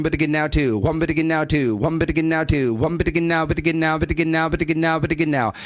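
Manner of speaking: fast rhythmic filler chant; auctioneer roll. Shown as a demonstration. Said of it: "the roll here would be".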